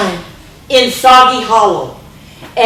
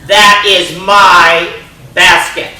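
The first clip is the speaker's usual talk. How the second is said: grumpy claim; 5 dB louder, slower than usual. Acted. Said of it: "And he goes".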